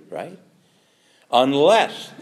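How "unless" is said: "Unless" hit loud; "Unless" said loud with weight; stress on unless. Shown as a demonstration. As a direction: punch "Unless" hard. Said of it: "what word can be stronger".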